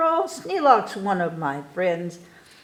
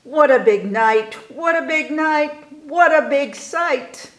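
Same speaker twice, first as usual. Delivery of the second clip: excited showman cry; 7 semitones higher, 4 dB louder than usual. Acted. Boy imagines opening night.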